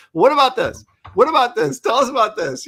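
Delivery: high, loud eager asking; eager questions. Retold or imitated. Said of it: "constantly going".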